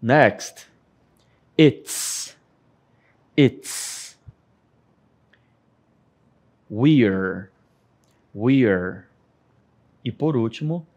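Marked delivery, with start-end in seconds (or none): 1.6-4.2 "It's" said crisp and breathy; crisp breathy "It's" for repetition; model pronunciation. Shown as a demonstration. Teacher drills "It's" for the class, crisp and breathy. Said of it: "vamos praticar a pronúncia". 6.7-9.0 "We're" said low, almost like "wi"; teacher models "We're" low and short; model pronunciation. Shown as a demonstration. Teacher drills "We're" for the class, low and short. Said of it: "vamos praticar a pronúncia".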